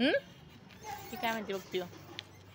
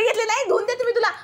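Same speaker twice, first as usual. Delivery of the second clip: laughing; 11 semitones higher, 6 dB louder, faster than usual. Real, not acted. Mother laughing at grabbing child.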